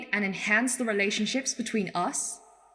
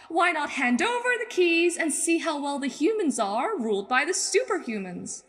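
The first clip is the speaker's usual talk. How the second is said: lightly mimicking cocky heroes, pitch climbing; imagined superheroes' argument; 3 semitones higher than usual. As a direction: lilt up into a mock-reasonable pitch. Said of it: "some of you think".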